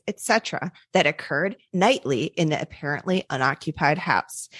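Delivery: put-on steady read-aloud of an old manuscript; story narration.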